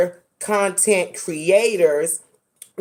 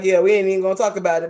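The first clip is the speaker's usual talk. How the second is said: dismissive; much faster than usual. Retold or imitated. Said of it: "dismissed it".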